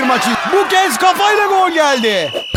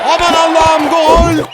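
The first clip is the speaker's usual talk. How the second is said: screaming football commentator; 3 dB louder than usual. Acted. Goal called in commentary.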